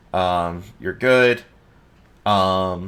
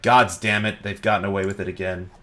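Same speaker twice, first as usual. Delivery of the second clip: mildly angry outburst. Acted. Lead guard hearing they've gotten away again, exasperated. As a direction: burst out on the oath, then rush on. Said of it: "this guy gets kind of red".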